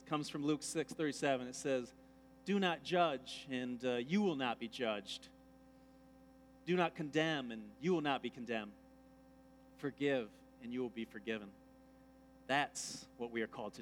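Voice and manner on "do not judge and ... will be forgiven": scripture reading. Acted. Reads scripture slowly.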